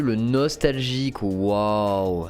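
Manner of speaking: slow, drawn-out admiration; drawn-out wow; mock wonder. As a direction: stretch it out in playful awe.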